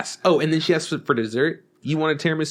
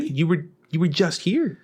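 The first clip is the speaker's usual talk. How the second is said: higher, slow mock disbelief; retold incredulous protest; 4 semitones higher, slower than usual. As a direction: act out baffled annoyance, dragging the words. Retold disbelief at the waitress returning.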